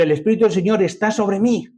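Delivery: ordinary delivery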